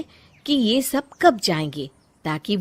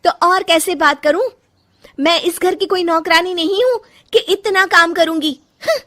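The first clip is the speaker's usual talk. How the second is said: much higher and louder, defiant; angry retort; 8 semitones higher, 6 dB louder than usual. Acted. Bahu refusing to be treated as a servant, loud angry retort. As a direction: snap back and refuse to be the maid. Bahu talks back to mother-in-law.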